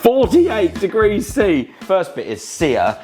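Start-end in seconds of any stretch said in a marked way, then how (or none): 0.0-1.7 slow announcement. Acted. Announcing the temperature.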